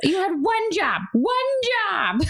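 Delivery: pause, then a hammed-up job; exasperated mom. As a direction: scold the kids in mock disbelief. Exasperated parent to kids.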